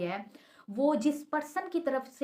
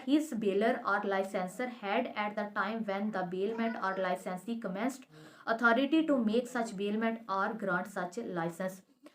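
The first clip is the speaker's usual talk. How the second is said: slow, deliberate legal text reading; reading the statute; much slower than usual. Shown as a demonstration. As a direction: read each clause out slowly and carefully. Reads statute text aloud.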